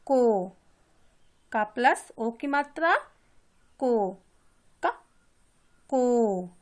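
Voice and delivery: teacher drilling को; o syllable demo. Shown as a demonstration. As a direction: stress को each time. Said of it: "इसमें ओ की ध्वनि निकल रही है".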